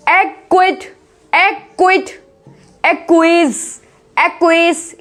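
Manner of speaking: एक्विट, एक्विज each carefully as "ek-kwit", "ek-kweez"; model pronunciation. Shown as a demonstration. Teacher drilling words with c before q, careful pronunciation. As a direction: say एक्विट and एक्विज singly, falling. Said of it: "इस तरीके से".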